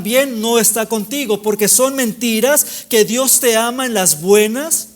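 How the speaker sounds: insistent preacher hammering each repeated phrase; impassioned preaching. Real, not acted. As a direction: preach with driving, sustained energy. Preaches at full force.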